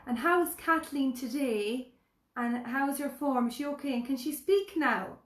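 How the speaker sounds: slow, loud, sing-song talking down; mock someone speaking to a child; slow condescending carer imitation; patronising carer voice. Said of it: "speaking to her like that".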